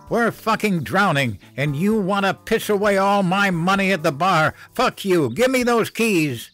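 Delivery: high, loud screaming rant at her husband; furious shouting. Acted. Mother screaming at drunk father about money, furious.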